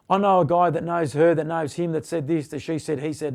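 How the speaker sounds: low, trailing-off rumour-monger patter; mock gossip. Mimicking someone passing rumours along, lightly mocking gossip.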